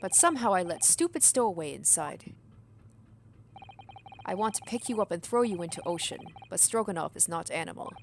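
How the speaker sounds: a lightly voiced broken-English sailor; hint of a burly foreign sailor; gruff sailor. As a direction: play a proud, touchy ship's crewman. Sailor threatens the stowaway.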